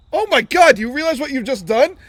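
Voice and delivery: loud, high mock disbelief; acted-out appalled outburst; retold alarm. Retold alarm at tossed cigar.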